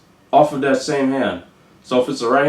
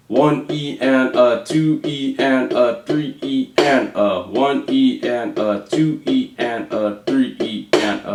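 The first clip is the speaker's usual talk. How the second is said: slow counting along. Shown as a demonstration. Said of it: "So it's gonna go".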